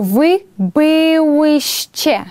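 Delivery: slow, careful Polish model of byłyście; slow model pronunciation. Shown as a demonstration. Teacher demonstrating the form to the class, slow. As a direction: drag it out so students can copy. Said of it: "буде за такою ж самою схемою".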